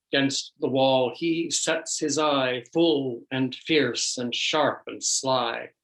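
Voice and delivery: measured verse recital with pauses between lines; poem reading. Acted. Priest reads an old Irish cat poem to friends, measured recital. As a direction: recite in couplets, pausing after each.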